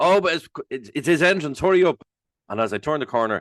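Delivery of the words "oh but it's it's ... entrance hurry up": put-on high shout, as if from afar. Retelling how a call came over to hurry up: imitating Jimmy shouting. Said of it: "Jimmy shouts over".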